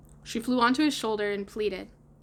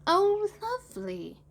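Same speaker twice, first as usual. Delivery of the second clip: very high, slow wonder; drawn-out awed exclamation; admiring boy; 11 semitones higher, slower than usual. A narrator's reading. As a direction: coo it out in a put-on child voice. Boy admiring sleeping Wendy's mouth.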